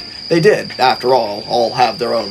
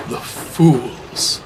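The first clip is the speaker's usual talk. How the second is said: muttered. A narrator's reading. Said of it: "He muttered under his breath".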